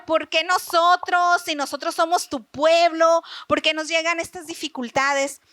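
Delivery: mild acted grievance; lightly voiced plaintive questioning; Habacuc complaining. Prophet asking God why his people suffer, mildly complaining. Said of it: "Habacuc empieza a quejarse".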